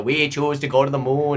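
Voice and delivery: lightly declaimed presidential line; JFK impression. Comic showing the only way into the voice, light JFK oratory. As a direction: slip into the moon-speech voice. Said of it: "I can't do the J F K".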